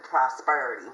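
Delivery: "prosperity" drawled in a Southern twang; accidental twang. Real, not acted. Tarot reader reading the card slips into a Southern twang. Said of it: "where the hell that twang accent came from".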